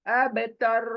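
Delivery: تر with a full, heavy ر; thick ر in اب تر. Shown as a demonstration. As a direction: keep the ر in تر thick and heavy, tongue not dropped. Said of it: "بلکہ موٹا رکھنا ر کو".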